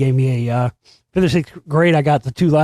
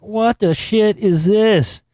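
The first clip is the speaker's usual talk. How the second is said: incredulous; 6 semitones higher, much slower than usual. Retold or imitated. Incredulous reaction to album cover.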